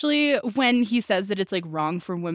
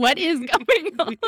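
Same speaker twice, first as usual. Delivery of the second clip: slow, high puzzled question; baffled kids voice; 9 semitones higher, 4 dB louder than usual. Retold or imitated. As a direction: sound lost and confused. Confused kids at school.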